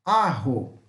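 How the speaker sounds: "Arro" with the Spanish J as an aspirated R; teacher's model of "Arro", h sound in the middle. Shown as a demonstration. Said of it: "J ou rota tem som de R".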